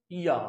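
या said alone as a sample sound; vowel demo. Shown as a demonstration. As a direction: model या for the class. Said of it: "दो लगेंगे तो".

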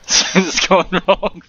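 dramatic title voice. Shown as a demonstration. Friend suggests a video title, so he booms it slowly. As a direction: announce it like a video title, slow. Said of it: "you need to have that in your title".

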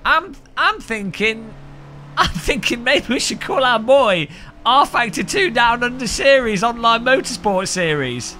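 high-pitched, hammed-up Aussie parent; bad Australian accent. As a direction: put on a terrible Australian accent, high and loud. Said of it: "this is the worst Australian accent I've ever tried".

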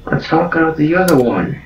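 ordinary delivery

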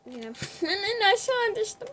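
high, laughing complaint about "düştüm". Real, not acted. Streamer fell again, laughing high at herself. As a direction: laugh through "ben en aşağı düştüm".

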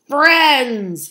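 high, loud, drawn-out angry shout; fuming shout. A narrator's reading. Furious farmer catching the foxes, fuming shout. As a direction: fume it out in one long shout. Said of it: "he fumed with a fierce frown".

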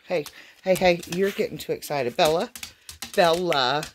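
yelling at the dog. Real, not acted. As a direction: call the dog off firmly. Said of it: "Sorry, guys, for yelling".

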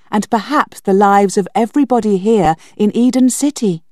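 put-on girl insisting to B Z, urgent. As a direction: make him take it seriously.

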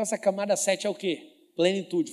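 ordinary talk

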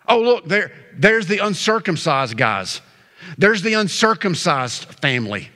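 mock pointing out the outsiders; lightly mocking name-calling; deriding. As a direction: act out a social put-down. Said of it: "this was a deriding nickname".

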